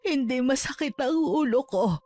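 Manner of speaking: mother talking through tears; tearful reassurance to a child. Acted. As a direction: hold back the crying as you answer. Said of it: "Wag na po kayong umiyak".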